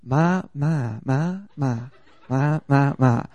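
"ma" repeated, each on a different tone; Thai tone drill. Retold or imitated. Preacher imitating Thai teachers, "ma" in changing tones. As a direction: recite "ma" like a tone teacher, varying the pitch. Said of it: "They were like".

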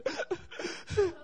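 high, hammed-up crying noise; mock sobbing. Husband imitating his wife crying in the car, mock high sobs. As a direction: imitate a sudden burst of weeping.

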